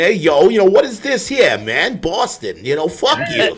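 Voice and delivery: put-on lightly done Boston accent, loose and cocky; a quick hammed-up Boston guy; a hint of a Boston tough-guy accent; mock Boston accent. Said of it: "It's that Boston accent".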